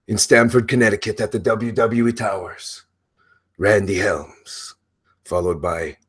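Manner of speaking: a hint of the grandiose wrestler voice fading out; lightly voiced Broken Matt Hardy. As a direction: ease off the character while still announcing. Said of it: "the very complex character of Broken Matt Hardy".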